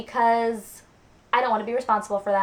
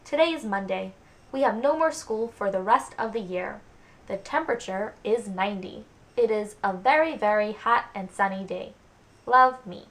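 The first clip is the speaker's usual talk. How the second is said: embarrassed diary reading. Shown as a demonstration. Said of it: "Just reading my diary from when I was seven".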